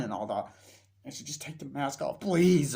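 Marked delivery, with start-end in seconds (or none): 1.2-2.7 imitated plea rising to a loud please; beg, bursting out on the last word; exasperated parent, hammed up; mock pleading. Acting mother's plea in quarrel.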